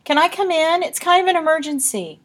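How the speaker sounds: high, loud breathless plea; panting. A narrator's reading. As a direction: plead urgently as if out of breath. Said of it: "panted Olive".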